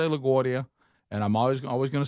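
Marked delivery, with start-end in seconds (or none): 0.0-0.7 LaGuardia in a New York accent; a hint of New York on LaGuardia. Shown as a demonstration. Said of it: "I love to say with New Yorkers".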